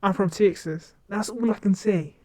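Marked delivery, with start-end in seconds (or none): 0.0-0.9 put-on Southern US accent; practised Texan-style Southern accent. Shown as a demonstration. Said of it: "in a Southern accent is Texas".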